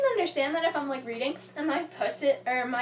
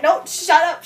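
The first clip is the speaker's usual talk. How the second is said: mock shush; 12 dB louder than usual. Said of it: "I was like".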